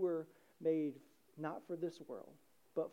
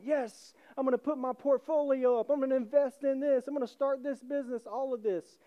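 eager son; 4 semitones higher, 4 dB louder than usual. Retold or imitated. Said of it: "you would think the son's going".

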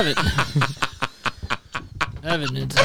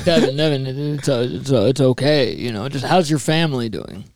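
mild calm Depp; 10 semitones lower than usual. Acted. Johnny Depp calming his doorman, low and soothing. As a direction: settle the doorman gently, low.

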